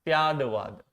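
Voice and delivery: "Syadvad" with a voiced d before "vad"; model pronunciation. Shown as a demonstration. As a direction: say "Syadvad" carefully, as "syaa-da-vaad". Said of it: "so that you don't mispronounce it".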